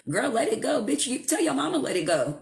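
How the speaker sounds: a high, mocking "let it go"; mocking advice giver. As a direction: brush them off, lightly mimicking a know-it-all. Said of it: "somebody else try to tell you how to feel".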